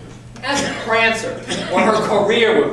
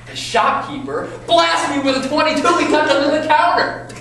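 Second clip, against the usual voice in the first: heated retelling; 6 semitones higher, 3 dB louder than usual. Acted. Climax of his shooting story.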